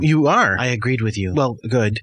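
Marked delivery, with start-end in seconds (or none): 0.6-1.3 Jordan Robot. Acted. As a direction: answer as a subdued, devoted robot. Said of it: "I'm a robot of you".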